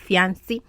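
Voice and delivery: fiancé said fee-AN-see; Yoruba pronunciation. Shown as a demonstration. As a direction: give fiancé a Yoruba-style "see" ending. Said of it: "the way we say it in Yoruba".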